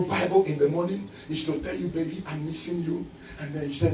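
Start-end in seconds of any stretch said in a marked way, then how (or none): 1.9-3.1 lightly mocking lover.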